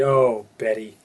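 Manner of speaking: drawn-out "Oh, Betty" in a grandmother's voice; grandmother's sigh. Retold or imitated. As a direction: lean on the "Oh", like a fond grandma calling. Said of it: "She'd call me and say".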